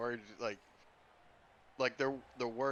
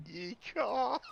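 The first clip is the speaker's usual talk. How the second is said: high, loud cowboy whoop; cowboy yeehaw; 11 semitones higher, 4 dB louder than usual. Pretend. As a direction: whoop it like a cartoon cowboy bird. Cowboy bird call, echoing the idea.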